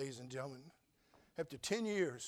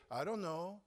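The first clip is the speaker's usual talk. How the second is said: "I don't know" said higher and lifted, a real undecided question; eager uncertain reply; 3 semitones higher, slower than usual. Shown as a demonstration. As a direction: say "I don't know" as if you're honestly torn. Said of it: "She didn't say".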